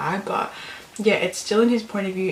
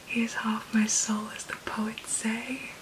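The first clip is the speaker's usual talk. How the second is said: reverent quote; 2 semitones higher, 6 dB quieter than usual. Shown as a demonstration. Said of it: "That is just stunning".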